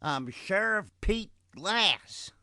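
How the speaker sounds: high, slow shrill announcement; shrill sheriff. A narrator's reading. Sheriff naming himself to the outlaws, shrill and high. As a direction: announce yourself, thin and high. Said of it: "the rather shrill tone of the sheriff".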